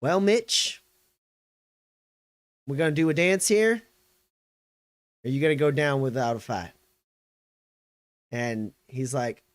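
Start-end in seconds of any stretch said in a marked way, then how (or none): 0.0-6.7 higher-pitched challenge with long pauses; unhurried gunslinger's dare; Graves. Acted. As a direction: taunt the colonel, taking your time. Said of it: "And she goes".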